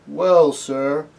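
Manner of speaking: hesitant, drawn-out humble reply; very slowly. A narrator's reading. Cabbie considering Aslan's question of war, very slowly. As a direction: take your time, weighing it. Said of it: "said the cabbie very slowly".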